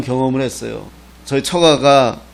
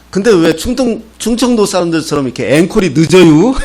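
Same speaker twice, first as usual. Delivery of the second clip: teasing, louder and lively retort; mock complaint; 4 semitones higher, 5 dB louder than usual. Pastor ribs a village audience over late encores, mock complaint. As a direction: quote the pastor ribbing the crowd, voice raised.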